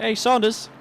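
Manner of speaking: lightly voiced cheeky racer; voicing a driver. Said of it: "Saying, like".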